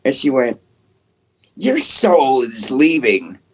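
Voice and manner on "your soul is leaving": slow, otherworldly spirit-box voice; eerie doll voice. Retold or imitated. Retelling what the haunted doll said, slow and eerie. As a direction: drag the words out like a ghostly child.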